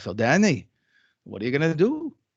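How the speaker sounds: put-on slight, sing-song French accent. Retelling what Papa asked him at high school graduation, in a little French Jewish accent. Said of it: "with his little French Jewish accent".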